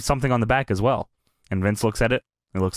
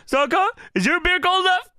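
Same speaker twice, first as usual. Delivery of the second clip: high mock Flair. Voicing Flair.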